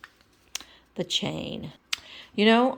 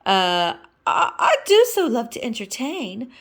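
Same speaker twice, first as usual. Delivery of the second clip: Miss Piggy voice; 6 semitones higher, 6 dB louder than usual. Acted.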